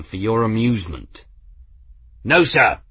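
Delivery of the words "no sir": crisp reply. Acted. Engineer answering at attention.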